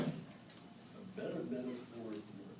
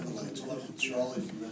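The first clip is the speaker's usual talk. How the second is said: louder, faster repeat; 6 dB louder, faster than usual. Real, not acted. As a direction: say it again louder and quicker so the room hears "Charlie". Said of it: "Is this Owen?".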